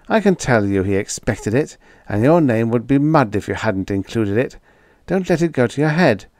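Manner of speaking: usual speaking voice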